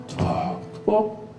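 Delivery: slow, soft whispered plodding; whispered footsteps. Shown as a demonstration. Preacher miming Jesus's slow footsteps, whispered. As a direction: breathe the footsteps out slowly.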